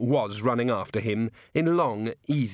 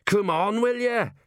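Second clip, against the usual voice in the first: much higher, loud call down the stairs; urgent gnome shout; 10 semitones higher, 3 dB louder than usual. A narrator's reading. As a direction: hurry him along, yelling from above. Gnome yells down from rooftop.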